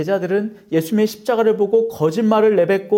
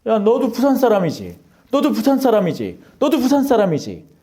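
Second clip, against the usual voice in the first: interrogator; 3 semitones higher, 3 dB louder than usual. Acted. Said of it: "그 조사관이 여러분한테 묻는 거예요".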